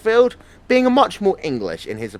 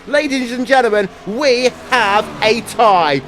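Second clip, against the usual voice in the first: slow, loud announcer reveal; dramatic announcer; 5 semitones higher, 4 dB louder than usual. Acted. Announcing dramatic tie finish.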